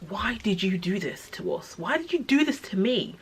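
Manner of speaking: pleading hurt reproach. Retold or imitated. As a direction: start subdued, then lift into an anguished question. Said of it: "I just felt so hurt".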